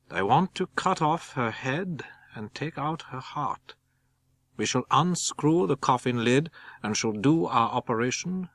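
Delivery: Van Helsing's urgent voice. Acted. Van Helsing explains secret plan.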